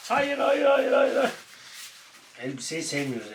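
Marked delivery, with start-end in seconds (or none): 0.1-1.3 high, repeated no to the dog; high squeaky no-no-no; pet talk refusal. Real, not acted. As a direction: owner stopping his dog playfully. Stopping the dog.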